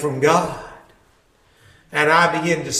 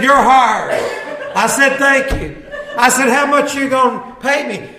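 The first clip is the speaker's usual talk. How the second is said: laughing retelling; 7 semitones higher, 3 dB louder than usual. Real, not acted. Laughing while retelling the hiring.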